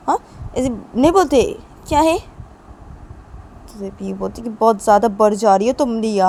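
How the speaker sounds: mother's mild telling-off; mild scolding. Acted. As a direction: scold the little girl, insistent but not furious. Mother scolds little daughter for talk. (हल्की डाँट)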